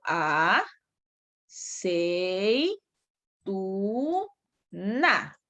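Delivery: "a, sei, tu, na" spoken syllable by syllable with pauses; split into syllables. Shown as a demonstration. Teacher splitting aceituna for online students, syllable by syllable. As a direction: break "aceituna" into a-sei-tu-na slowly. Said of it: "Cuatro sílabas".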